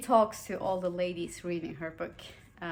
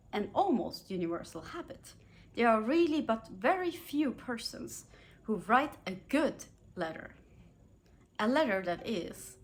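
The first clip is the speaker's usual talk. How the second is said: put-on measured, formal read of an old etiquette manual; reading aloud; 2 semitones higher than usual. Vlogger reads etiquette book passage to viewers, formal reading voice. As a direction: read it like a proper Victorian rulebook.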